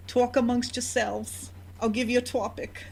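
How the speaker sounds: lightly voiced verklempt talk-show hostess; mock-verklempt sketch character; Coffee Talk Jewish lady impression. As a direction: imitate a Jewish lady host, pitched a little up. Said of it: "coffee talk of this Jewish lady".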